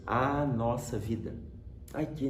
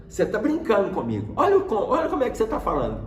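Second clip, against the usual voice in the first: high, louder retold scolding; indignant father; 7 semitones higher, 5 dB louder, faster than usual. Father to joking son, indignant. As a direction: imitate dad's protest, rising in pitch and speeding up. Pai indignado com o filho.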